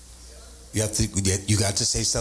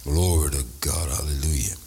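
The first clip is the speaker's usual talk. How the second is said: low breathy glory to God; whispered praise; 11 semitones lower than usual. Real, not acted. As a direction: drop to a hushed hallelujah.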